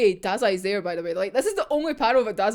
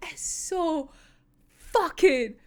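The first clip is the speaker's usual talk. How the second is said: breathless whisper of awe; whispered rave; 6 semitones higher, much slower than usual. Real, not acted. Fan whispering awe at the manga panel. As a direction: whisper it like it's too good to say aloud.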